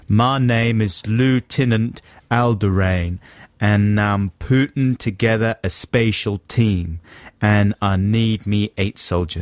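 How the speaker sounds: slow Tennessee drawl; Tennessee accent. Acted. Lieutenant recruiting eight soldiers, slow Tennessee accent. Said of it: "That's Tennessee, that accent".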